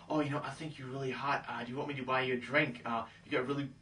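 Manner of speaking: a hint of meek flattery; nice-guy pickup. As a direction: lightly parody an eager nice guy. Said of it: "like, a nice guy".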